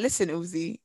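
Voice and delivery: low, serious imitation of a warning; mock-serious low warning; stern warning. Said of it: "Whoa, that was serious".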